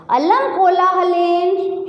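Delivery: slow, deliberate call for silence from the stage host; drawn-out hushing order to a noisy hall; announcer's command. Retold or imitated. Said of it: "यही line बोल रहा है संचालक". (धीमी आवाज़ में संचालक का आदेश)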